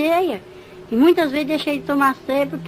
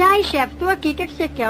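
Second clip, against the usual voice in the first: eager little demon; 5 semitones higher than usual. Acted. The demon answers his chief, an eager servant. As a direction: snap to attention like a lackey demon.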